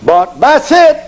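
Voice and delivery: put-on a teen begging his dad, squeaky; whining son. Son to father about the camel, high whining plea.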